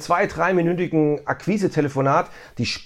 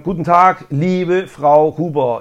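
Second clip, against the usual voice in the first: friendly greeting; 4 dB louder, slower than usual. Shown as a demonstration. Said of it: "darauf steige ich ein".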